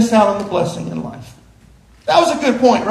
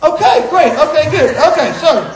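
laughing, flustered; 5 semitones higher, 4 dB louder than usual. Real, not acted. Laughing at the money moment.

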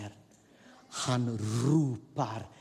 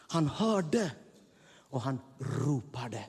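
normal talking voice

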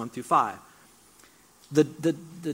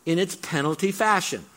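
louder, slower pressing challenge; preacher paraphrasing Paul with rising force; pleading paraphrase; 4 semitones higher, 5 dB louder than usual. Retold or imitated. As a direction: drive it home to the congregation. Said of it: "He's basically saying".

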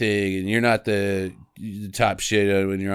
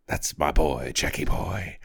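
creepy coach murmur; 9 semitones lower, 6 dB quieter than usual. Retold or imitated. Coach voice again.

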